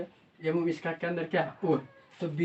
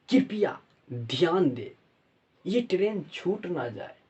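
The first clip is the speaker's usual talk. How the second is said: over the intercom; slower than usual. Pretend. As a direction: draw out the final platform call. Closing call of mock announcement.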